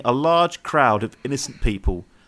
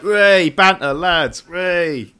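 Guy Ritchie impression; 3 semitones higher, 4 dB louder, slower than usual. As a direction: play the put-on laddish geezer voice. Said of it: "He puts that voice on".

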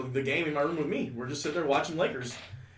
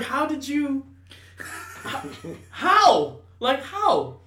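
amazed laughing; 11 semitones higher, 6 dB louder, much slower than usual. Retold or imitated. Father amazed, retold laughing.

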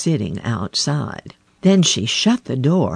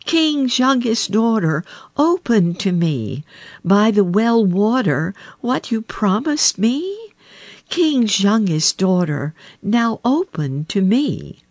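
higher calling frog voice; frog crying at door; 6 semitones higher than usual. A narrator's reading. Frog knocking again for the princess, higher calling. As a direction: call and plead through the door.

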